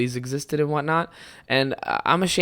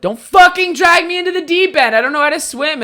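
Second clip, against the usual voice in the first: much higher and louder panicky yell; hammed-up frightened child pleading; mock panicked kid; 14 semitones higher, 8 dB louder than usual. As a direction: play the terrified kid who can't swim. Panicked child self quoted.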